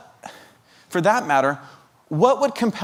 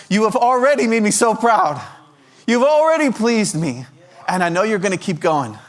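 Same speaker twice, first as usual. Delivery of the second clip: louder and higher, bursting with pride; proud, loud father; 7 semitones higher, 4 dB louder than usual. Retold or imitated. Preacher voicing God the Father, proud and loud. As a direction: shout it out like a proud dad.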